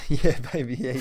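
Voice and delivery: excited footballer cheer; hammed-up celebration cheer; Rory Sloane. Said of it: "in the words of Rory Sloane".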